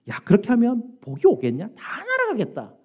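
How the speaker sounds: sarcastic jeer. Acted. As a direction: act out a sneering jab, rising high at the end. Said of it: "이런 빈정거리는 말을 하게 된다면". (높은 톤으로 빈정대는 흉내)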